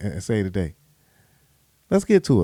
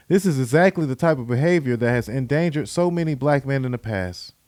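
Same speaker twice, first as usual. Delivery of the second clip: tweet read aloud; 4 dB louder than usual. Shown as a demonstration. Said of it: "use Ben Crump's tweet".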